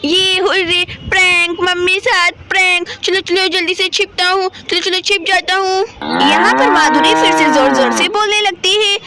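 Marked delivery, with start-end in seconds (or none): 0.1-5.8 a hint of a child character, talking to himself; lightly done story-boy chatter, word by word; lightly voiced little Shivam. Voices boy Shivam pleased with prank. (हल्की-सी बच्चे शिवम की आवाज़)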